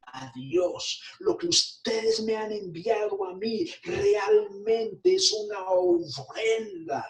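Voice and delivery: real emotion breaking through the sermon; choked-up preacher; tearful preaching. Real, not acted. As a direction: voice catching with tears. Preacher moved by the offering.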